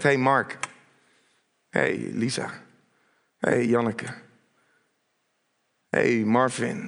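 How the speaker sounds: low, unhurried call by name; gentle personal calling. Acted. Preacher as Jesus calls listeners by name, gentle calling. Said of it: "zo roept Jezus ook jouw naam".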